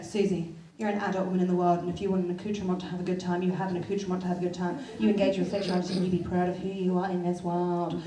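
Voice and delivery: lightly voiced sensible inner voice. Her calm side of the brain giving a pep talk, earnest. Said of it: "One side of my brain is going".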